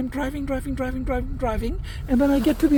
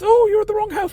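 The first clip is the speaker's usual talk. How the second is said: much higher, louder lady's voice; imitating the lady; 11 semitones higher, 5 dB louder than usual. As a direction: pitch up for the friendly neighbour lady. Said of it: "she goes".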